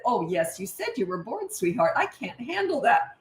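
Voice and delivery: soft, sugary, a touch of mock pity; mock-sweet warning. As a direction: purr it sweetly, with a trap behind it. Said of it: "I said".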